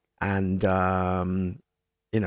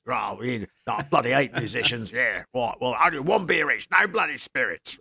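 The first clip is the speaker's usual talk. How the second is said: comedy Australian. Retold or imitated. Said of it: "absolute comedy Australian".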